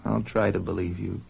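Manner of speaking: very low, hushed, near whisper; soft relenting. Acted. Husband agrees to believe his pleading wife, hushed and relenting. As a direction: give in gently, almost under the breath.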